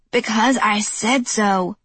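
slow, firm snap; snapping. Acted. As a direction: shut him down like a strict mother. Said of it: "she snapped".

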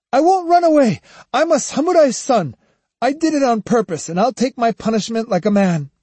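high, loud proud cries; defiant. A narrator's reading. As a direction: shout through pain, defiant. Boy pinned, defiant.

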